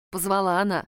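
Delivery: plain reading voice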